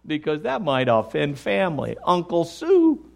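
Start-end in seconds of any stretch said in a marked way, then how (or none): 2.1-3.0 "Uncle Sue" said with a knowing, pointed fall; pointed name. Shown as a demonstration. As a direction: lean on "Sue" so they catch the joke. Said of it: "and notice how I said that".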